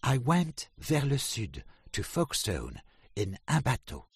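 high, loud little duck voice; Drake the duck. A narrator's reading. Drake tells his friends of his trip, high duck voice. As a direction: chirp it out proudly like a small duck. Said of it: "said Drake".

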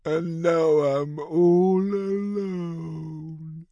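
put-on high, slow weeping child voice. A narrator's reading. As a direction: weep it out, lonely. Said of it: "wept Wilma".

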